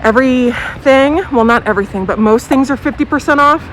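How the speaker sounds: talking through a face mask; muffled by mask. Real, not acted. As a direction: speak muffled behind a mask. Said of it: "I have my mask on if I sound a little muffled".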